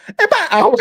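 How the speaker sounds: high-pitched mock-clueless blurt; dumb blurt. Retelling a dumb answer to a customer, mock-clueless. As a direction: blurt it high, sending up your own dumbness. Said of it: "my dumb, dumb ass, I go".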